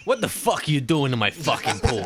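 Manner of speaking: put-on comic New York accent; indignant New Yorker gorilla. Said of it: "I know that's New York".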